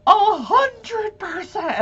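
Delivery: slow, high, loud emphatic witness; firm answer. Retold or imitated. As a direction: drag it out, dead certain. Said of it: "and she's like".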